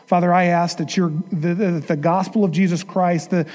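hushed, earnest prayer to the Father. Acted. Pastor leading the congregation in closing prayer, earnest.

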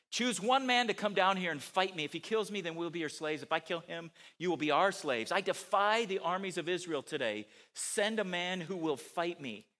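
half-hearted bellowed dare; mock shouted taunt. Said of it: "shouted a taunt".

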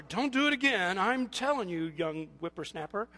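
loud playful scolding; mock stern warning. Elder telling off a young whippersnapper, mock stern. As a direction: warn like a put-on elder, easing off at the end.

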